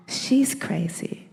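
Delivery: slow whispered confiding; whispered aside. Retold or imitated. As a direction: hush it slowly like a secret. Aside to the elder.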